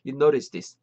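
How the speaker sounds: You notice this in one go with tapped t; linked sounds. Shown as a demonstration. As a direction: join You notice this as "you-noris-dis". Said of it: "한 번에".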